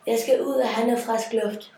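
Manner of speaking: urgent call. Acted. Overheated prince orders a stop.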